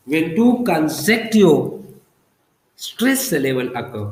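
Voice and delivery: very slow, drawn-out definition; slow dictation. Shown as a demonstration. Teacher repeating the spondee rule for students, slow dictation. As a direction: stretch each word out for note-taking.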